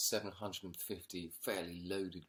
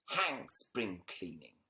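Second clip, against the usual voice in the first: defiant; 3 dB louder, much slower than usual. Acted.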